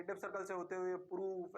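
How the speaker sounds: normal talking voice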